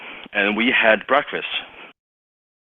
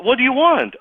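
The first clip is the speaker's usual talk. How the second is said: irritated gatekeeper; 4 dB louder than usual. Retold or imitated. Gatekeeper snapping at caller.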